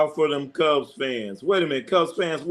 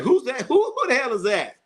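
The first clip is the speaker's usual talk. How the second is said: imitating a baffled onlooker; 9 semitones higher than usual. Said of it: "You be saying".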